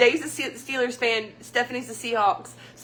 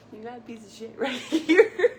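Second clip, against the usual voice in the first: words breaking into real laughter; can't hold the laugh in; laughing while quoting the joke; laughing through the punchline. Real, not acted. Retelling Dave's joke, laughing.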